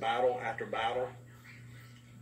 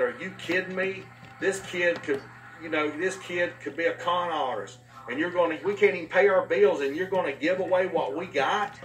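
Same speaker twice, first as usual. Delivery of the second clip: mock outraged husband; imitating husband; 4 semitones higher than usual. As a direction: voice the husband scolding his wife. Husband's quarrel voiced in story.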